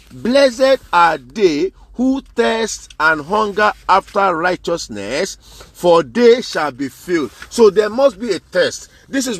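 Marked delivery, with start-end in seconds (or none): 0.1-7.3 slow, drawn-out reading of the verse; scripture reading. Acted. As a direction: read it out slowly like holy writ.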